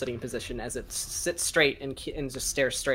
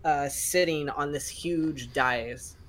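slow, measured scene setting; game master narration. A narrator's reading. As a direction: set the scene for the players.

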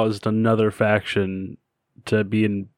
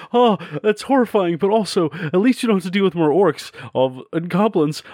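a hint of a high, rushed defender; mock relief spilling out fast; lightly voiced frightened defender; imagined defender; 6 semitones higher than usual.

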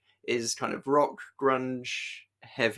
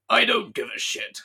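pitched-up mock villain, laughing through it; Bison not caring; 10 semitones higher, 4 dB louder than usual. Bison dismissing Cammy's capture, mock villain voice laughing. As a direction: toss it off like a cartoon villain who couldn't care less. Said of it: "Bison's just like".

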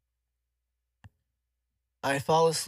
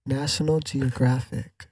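slow savoring; slower than usual. Pretend. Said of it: "Why is that satisfying?".

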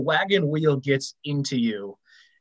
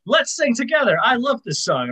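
put-on drunk guy voice; 9 semitones higher than usual. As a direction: gush like a happy drunk. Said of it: "is like".

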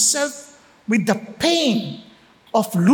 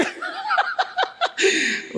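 mocking cackle; 4 dB quieter than usual. Mocking friend laughs.

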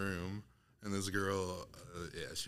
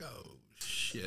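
retold shock; 8 semitones higher, 5 dB quieter than usual. Retold shocked reaction in dark room.

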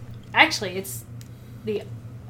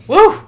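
sleep woo; 6 semitones higher, 12 dB louder than usual. Retold or imitated. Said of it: "all of a sudden I hear a".

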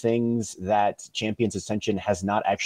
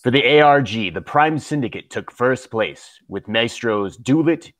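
news anchor voice. Pretend. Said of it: "I'm gonna try and get my news anchor voice on".

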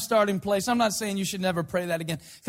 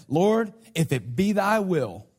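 slow, solemn mock prayer; praying Baptist; 4 semitones lower, slower than usual. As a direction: lightly imitate a pious churchgoer praying. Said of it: "they'll say".

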